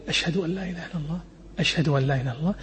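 low, soft murmur of the shahada; quiet undertone. Shown as a demonstration. Teaching the muezzin's hushed first shahada, very soft. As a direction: drop to a hushed voice for the first pair. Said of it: "بصوت خافت".

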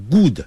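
"good" mispronounced with a short tight oo; wrong short "good". Shown as a demonstration. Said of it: "不要念成good".

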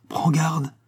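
hissed warning bursting loud at the end; brewing storm. A narrator's reading. Gypsy warns Don José she will kill him, menacing. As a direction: let the threat swell from a hiss to a cry. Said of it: "dont la voix couvait les tempêtes".

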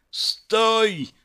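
high-pitched urgent shout; one long, high cry to halt; yelled command. A narrator's reading. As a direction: yell it after someone running off. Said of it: "проорал я".

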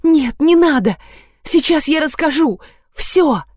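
terrified squeal not to call the police; squealing plea. A narrator's reading. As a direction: shriek in panic, hiding her head. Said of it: "взвизгнула".

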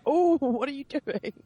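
mock Irish accent. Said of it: "his Irish accent".

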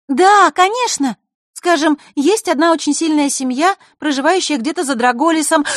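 loud, high and eager; keen to share the secret. Acted.

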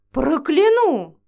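loud, slow, seething threat; mounting rage. Acted. Vampiress threatens the girl, growing rage. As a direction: promise revenge, raging. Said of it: "ещё больше распалялась".

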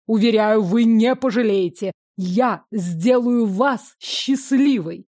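ardent. Acted. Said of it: "с жаром заверил".

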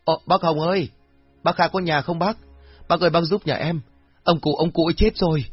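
high-pitched, distraught plea; tearful wailing. A narrator's reading. Woman at the gate reporting her father's death, tearful. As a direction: beg for help in a high, weepy voice. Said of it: "vừa khóc vừa mếu máo".

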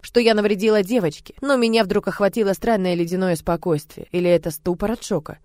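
plain reading voice

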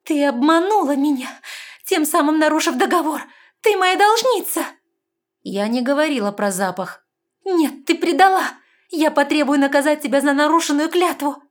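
high, loud angry shouting; furious accusation. A narrator's reading. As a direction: hurl the betrayal at her. (гневный крик)

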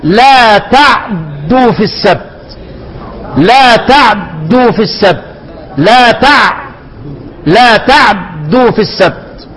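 لا تعدوا في السبت recited slowly, each sound clear; slow recitation demo. Shown as a demonstration. Teacher reciting the verse slowly for students. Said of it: "قلنا لهم إيه؟".

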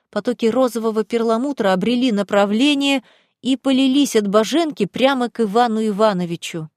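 ordinary delivery

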